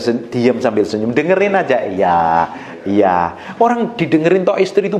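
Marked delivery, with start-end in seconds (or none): 1.9-3.4 low, patient agreement; placid, low-pitched listening reply; calm acquiescence. Shown as a demonstration. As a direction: agree mildly through a smile. Models listening calmly while smiling.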